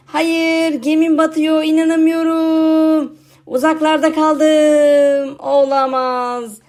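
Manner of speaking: slow, hammed-up wail at the sinking ship; overplayed dismay, drawn out; mock despair. Zombie watching his ship sink, hammed-up despair.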